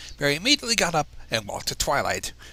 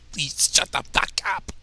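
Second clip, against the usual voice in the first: whispered; 4 dB louder than usual. Pretend. Imagined audience heckling the speaker.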